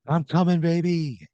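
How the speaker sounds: high, loud call down a shaft. Acted. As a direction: holler down to a stranded wife. Calling down shaft to wife.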